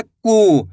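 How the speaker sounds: कू with a long ऊ; drawn-out ku. Shown as a demonstration. Teacher demonstrating the long vowel. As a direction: draw out कू. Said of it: "खींच के पढ़ेंगे".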